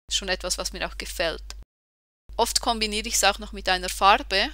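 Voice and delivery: ordinary talk, nothing marked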